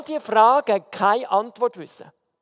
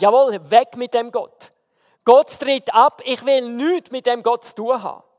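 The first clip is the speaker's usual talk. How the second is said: retold shouting. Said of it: "angefangen zu rufen".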